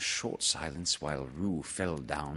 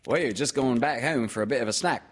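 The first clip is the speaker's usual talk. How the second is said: higher, louder mother character; busy mother, pitched up; Kanga; 5 semitones higher, 5 dB louder, faster than usual. Acted. Mother explaining the trip home, in a raised character voice. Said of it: "said Kanga".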